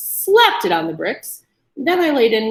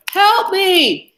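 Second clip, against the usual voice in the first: high, loud cry for help; scream; 11 semitones higher, 5 dB louder than usual. A narrator's reading. Trapped man screaming to the street. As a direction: scream it out toward the window. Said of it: "he screamed toward the window".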